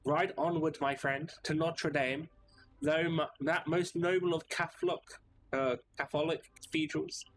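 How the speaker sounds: grand mock-medieval knight, speaking slowly; pompous knight. Knight passenger declaiming to the cab driver, grand and pompous. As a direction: puff up and declaim like a noble knight.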